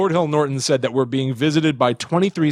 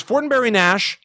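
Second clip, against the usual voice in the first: slowed quote; 9 semitones higher than usual. Retold or imitated. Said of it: "and then he slows down".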